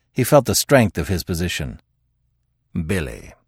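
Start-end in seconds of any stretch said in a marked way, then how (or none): 2.9-3.3 low, soft, earnest appeal; sober, lowered address. A narrator's reading. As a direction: say the name quietly and seriously. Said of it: "said the detective earnestly".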